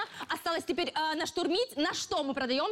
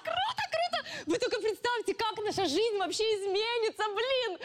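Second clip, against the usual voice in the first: excited; 4 semitones higher than usual. Acted. Dreaming of business success.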